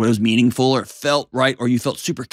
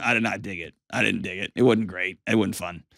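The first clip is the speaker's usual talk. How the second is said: gentle honest feedback; 5 semitones lower, 6 dB quieter than usual. Pretend. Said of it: "Hey, I said I would try".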